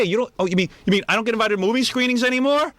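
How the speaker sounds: high, whining mock Gary; whiny Gary. Host mocks Gary missing the perks, high whine. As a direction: whine like a spoiled ex-producer. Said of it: "he had no idea".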